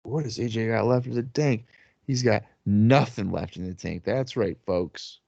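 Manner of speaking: lightly hammed-up ringside announcer; wrestling commentator. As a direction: play the TV commentator to the crowd. Mock play-by-play between friends.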